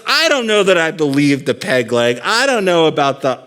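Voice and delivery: loud, high-pitched mock exasperation; incredulous protest. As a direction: protest in disbelief, as a character in a joke. Joke's listener protests in disbelief.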